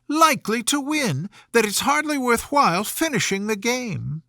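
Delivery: put-on a young girl complaining, a bit breathless with fuss; Alice, voiced lightly. A narrator's reading. Alice covers herself before the Queen.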